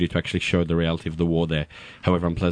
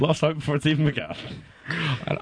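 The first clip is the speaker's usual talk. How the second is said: laughing through the words, higher; 9 semitones higher than usual. Real, not acted. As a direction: giggle it out. Laughs at own joke on air.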